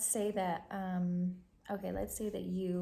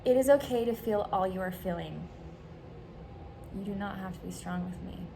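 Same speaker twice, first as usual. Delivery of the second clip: gentle reading. Shown as a demonstration. Reads out a supportive script.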